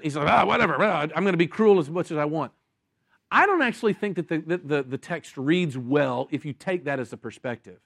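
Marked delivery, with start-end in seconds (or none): 0.3-2.5 lightly voiced careless shrug of a villain; a hint of a flippant brute. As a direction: toss it off like nothing matters. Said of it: "he's flippant".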